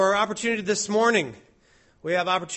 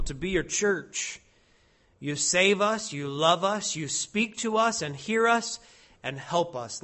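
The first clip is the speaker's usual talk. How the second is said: prayer. Acted. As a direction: pray to the Lord on behalf of the church.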